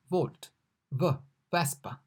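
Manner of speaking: volt then vespa, same V; comparison demo. Shown as a demonstration. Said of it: "like V in volt".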